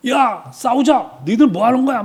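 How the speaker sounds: high, drawn-out mock battle yell; imitated Goliath bellowing at the enemy. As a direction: holler a challenge like a taunting giant. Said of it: "소리를 꽥꽥 지릅니다".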